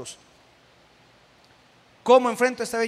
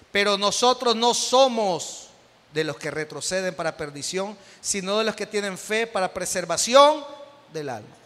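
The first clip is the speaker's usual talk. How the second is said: scripture reading; 3 dB louder than usual. Real, not acted. Retoma la lectura del versículo. (lectura bíblica solemne)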